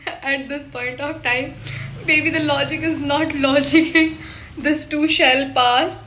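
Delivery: very slow, dramatic quoted lines; slow mock dialogue. Imitating a character's dialogue, slow and dramatic. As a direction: drag every word out, mock-dramatic.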